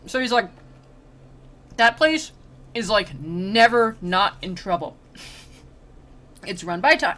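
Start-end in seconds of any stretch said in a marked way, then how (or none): 1.8-7.1 talking while eating; words round a mouthful of food; mouth full. Real, not acted. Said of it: "I was talking while eating".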